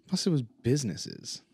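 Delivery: whisper. Pretend. Whispered banter about business.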